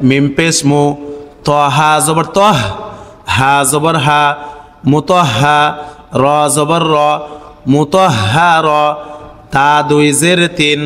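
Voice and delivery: measured Arabic syllable-by-syllable chant; Quranic spelling drill. Shown as a demonstration. Teacher models letter-by-letter spelling for learners, chanted slowly. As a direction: recite evenly, drawing out long syllables.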